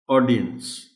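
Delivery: ऑडियंस with main stress on ऑ; primary stress on A. Shown as a demonstration. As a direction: lean on the first syllable of ऑडियंस, lighter डि. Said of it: "primary stress ए पर है".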